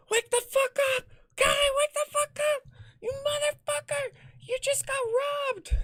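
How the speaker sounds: frantic, very high mock screech; squealed falsetto yelling; Ingrid yelling. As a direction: imitate a furious friend shrieking someone awake. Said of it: "yelling at me".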